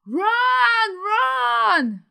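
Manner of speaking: high, drawn-out shout after a gasp; loud, panicked urging; urgent yelling. Real, not acted. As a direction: scream at your player to flee. Urging her Sim to run.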